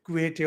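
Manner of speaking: Quixote said roughly Spanish, as kweh-tay; Spanish pronunciation. Shown as a demonstration. Speaker showing how they pronounce it, Spanish pronunciation. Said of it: "Spanish pronunciation".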